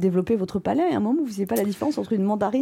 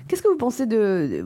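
mouth full; slower than usual. Real, not acted. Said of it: "crache le chocolat que t'as dans la bouche".

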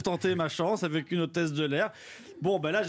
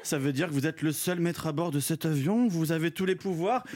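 languorous voice; 4 semitones lower than usual. Acted. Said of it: "d'une voix langoureuse".

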